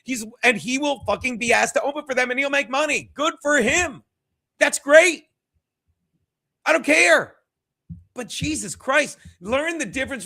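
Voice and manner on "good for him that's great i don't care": loud, sarcastic brush-off. Real, not acted. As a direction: shout it with biting sarcasm. Ranting about Chad's success.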